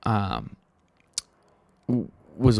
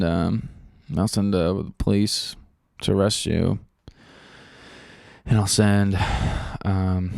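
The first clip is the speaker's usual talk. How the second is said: imitating an operator who couldn't care less; bored dispatcher; 2 semitones lower than usual. Mocking the 911 operator's totally uninterested tone. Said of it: "That's how, that's how he sounded".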